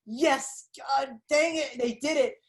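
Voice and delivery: reliving a victorious reaction, not a full shout; retold happy triumph. Viewer retelling jumping up from the couch, happy triumph. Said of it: "such a happy moment for me".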